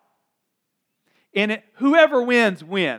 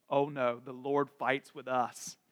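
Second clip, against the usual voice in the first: soft, lower mock whine; 7 semitones lower, 12 dB quieter than usual. David, mocked by Goliath, in a soft mock whine. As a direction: whine it like a weak little kid. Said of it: "And he just whines".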